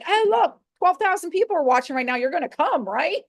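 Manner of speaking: high, pushy, fast sales pitch; guilt-tripping. Retold or imitated. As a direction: lay the guilt on, upbeat. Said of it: "guilting people".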